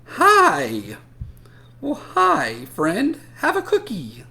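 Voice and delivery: high, loud cheery greeting; friendly superhero. Acted. Drawn superhero greeting a new friend, high and loud. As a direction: greet them big and bright.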